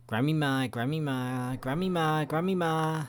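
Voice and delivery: playful call for grandma. Pretend. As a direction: call her name, pitch rising each time. Calling for the grandmother.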